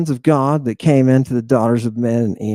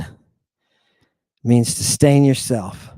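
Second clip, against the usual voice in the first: slow emphatic; 5 semitones lower, much slower than usual. Real, not acted. Slower, deeper repeat.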